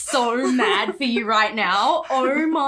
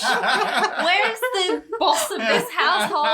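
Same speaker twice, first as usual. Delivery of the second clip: slow, higher, laughing demand for the man of the house; hammed-up indignant call through a laugh; mock demand; 6 semitones higher, much slower than usual. Friend jokingly demanding the husband, slow laughing mock indignation.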